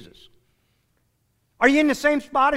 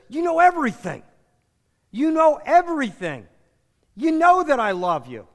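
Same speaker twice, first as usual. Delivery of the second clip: a touch of exasperated pleading, higher; mildly exasperated Peter insisting he loves Jesus; frustrated; 4 semitones higher than usual. Retold or imitated. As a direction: retell Peter's hurt frustration lightly. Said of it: "And Peter gets frustrated".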